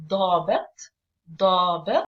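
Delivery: "ضابط" with a heavy, stressed D; hard D, jaw down. Shown as a demonstration. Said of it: "Again, your jaw goes down".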